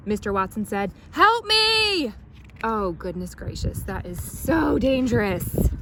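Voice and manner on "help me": high frantic plea; panicked cry. A narrator's reading. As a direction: squeal for help. Watson cries out.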